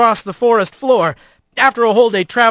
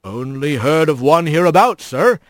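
shrugging otter bo'sun; 4 semitones lower than usual. A narrator's reading. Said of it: "Trek shrugged".

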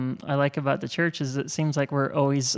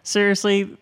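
frustrated; 6 semitones higher than usual. Retold or imitated. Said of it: "when I get frustrated with things".

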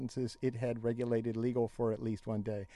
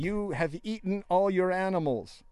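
quoting official; 6 semitones higher than usual. Retold or imitated. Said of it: "said a senior official".

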